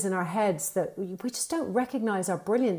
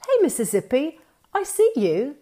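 calling out the inner critic; 6 semitones higher than usual. Shown as a demonstration. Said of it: "you sort of call it out and go".

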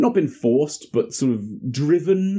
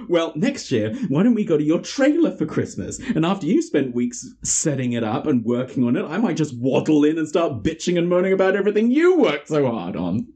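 snapping; 4 semitones higher than usual. Retold or imitated. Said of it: "Sarah snaps".

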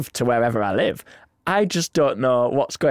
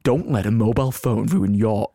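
cinema voice; 4 semitones lower than usual. Shown as a demonstration. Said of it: "Cinema Voice".

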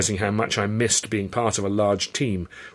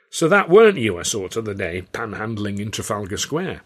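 Cockney showman voice. Acted. Carno's dialect voice.

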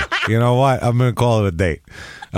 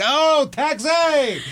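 high, slow, stretched "Oh, taxi!"; mock New Yorker calling a taxi; hammed-up cab hail; much slower than usual. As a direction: drag it out like a cartoon New Yorker hailing a cab.

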